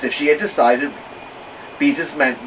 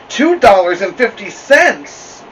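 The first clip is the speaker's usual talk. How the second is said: shocked; 8 semitones higher, 8 dB louder, slower than usual. Acted. Shocked at price.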